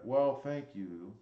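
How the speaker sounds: put-on slow leering old man voice; lightly voiced creepy old man. Shown as a demonstration. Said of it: "Just made you sound like a creepy old man".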